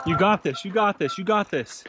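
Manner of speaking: high, loud repeated encouragement; cheering. Real, not acted. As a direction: chant her up the hill. Cheering rider uphill.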